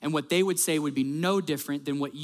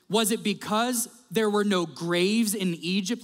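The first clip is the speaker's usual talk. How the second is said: higher, drawn-out incredulous question; slow sarcastic accusation, pitched up; 5 semitones higher than usual. Retold or imitated. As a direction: read it as a pointed complaint. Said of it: "Listen to this sarcasm".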